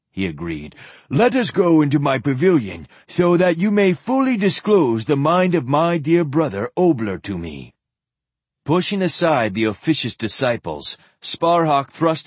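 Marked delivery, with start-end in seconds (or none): 1.1-7.7 put-on old zealot voice. Old zealot Ereshkigal speaks.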